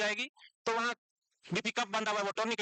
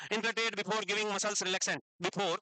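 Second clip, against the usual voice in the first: very slow, word by word; slow dictation; much slower than usual. Shown as a demonstration. Teacher dictating notes to students, very slow. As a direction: dictate so they can write along. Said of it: "अभी मैं रुक रुक के बोलूंगा".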